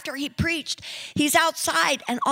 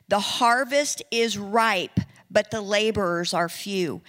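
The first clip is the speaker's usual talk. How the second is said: slower, weightier second telling; slower repeat; 2 semitones lower than usual. Retold or imitated. Angel's message repeated slowly and deliberately. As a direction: let it land slowly the second time. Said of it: "said this three times".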